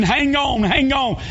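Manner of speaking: family running along the bank yelling to her; retold hollering. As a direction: yell encouragement across the river. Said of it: "hollering and screaming".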